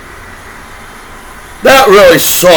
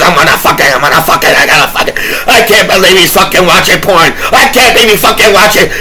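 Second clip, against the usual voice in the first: mock outraged hater; 2 semitones lower, faster than usual. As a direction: spit it out like a scandalized snoop. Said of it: "everybody's like this".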